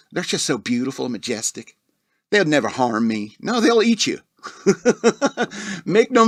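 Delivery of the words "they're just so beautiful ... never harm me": dreamy grizzly man. Retold or imitated. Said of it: "That's how he talked".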